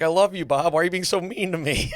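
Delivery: high, whiny mock plea; mock pleading Jason. Retelling Jason pleading with Bob, high mock whine. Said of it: "Jason was like".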